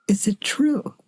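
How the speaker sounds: hushed inquiry; whisper. Real, not acted. Gentle inquiry question.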